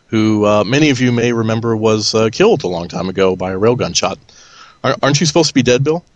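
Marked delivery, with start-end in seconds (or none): 4.8-6.0 quick, teasing mock disbelief; mock surprise. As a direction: fire it off like a fake shock. Teasing a "dead" guest.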